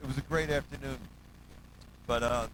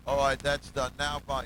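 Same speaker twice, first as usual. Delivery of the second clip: loud, impatient "that's done, now bye"; impatient retold shout; 8 dB louder than usual. Retelling a famous musician impatiently leaving, loud mock bark. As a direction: bark it out like a star eager to leave.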